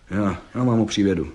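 ordinary delivery

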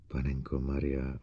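soft low gasp of dismay; Bogert's dismay slipping out; slipped-out exclamation. Acted. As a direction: let it escape under breath. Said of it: "uklouzlo Bogertovi".

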